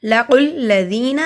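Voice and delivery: "لَقُوا الَّذِينَ" with a full, heavy q; heavy qaf. Shown as a demonstration. Teacher showing the heavy qaf, "لَقُوا الَّذِينَ" recited thickly. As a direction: make the q in "لَقُوا" thick and join it to the doubled l. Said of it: "قاف دونوں والا موٹا پڑھا جاتا ہے".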